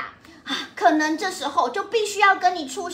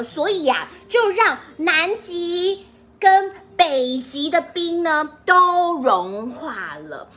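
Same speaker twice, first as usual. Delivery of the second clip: put-on reading to a toddler. Narrates picture book to children.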